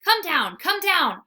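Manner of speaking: a frantic puppy barking up the tree; pleading bark. A narrator's reading. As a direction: beg her to come down, loud. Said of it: "I bark again".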